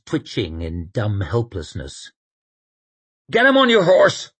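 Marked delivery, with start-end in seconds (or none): 3.3-4.3 high, loud urgent snarl; fierce, raised-voice snarl; snarled order. A narrator's reading. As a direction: snarl a command at someone in a panic. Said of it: "snarled Shy".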